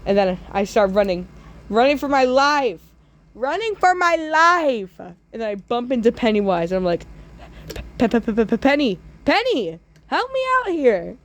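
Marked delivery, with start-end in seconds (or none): 1.7-5.0 rising high mock panic; hammed-up frantic running; panicked flight. Fleeing in panic. 8.0-11.2 high stuttering panicked plea; hammed-up terrified stutter; stammering plea.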